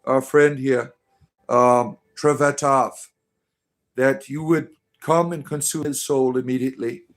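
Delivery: a hammed-up ritual invocation, slowing on the names; mock prayer. Cult leader invoking Cthulhu over a friend, mock solemn prayer. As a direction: call on the dark god like a cult priest.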